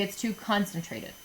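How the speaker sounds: a touch of nerdy precision. Shown as a demonstration. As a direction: say it lightly like a nerd. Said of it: "If I was gonna say it like a nerd".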